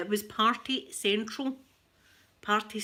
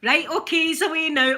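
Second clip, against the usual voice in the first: retold all-clear; 7 semitones higher, 8 dB louder than usual. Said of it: "And then".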